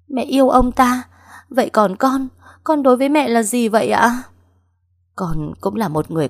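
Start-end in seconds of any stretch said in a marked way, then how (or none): 0.1-1.0 much higher and louder, incredulous; shocked outcry. Acted. Daughter shocked by mother's answer. 1.5-4.2 higher and louder, wounded demand; hurt outcry. Acted. Daughter confronts mother, hurt.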